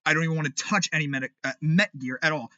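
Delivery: stumbling over words in anger; stammering, tripping on Met; stuttering. Real, not acted. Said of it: "See, I'm stuttering".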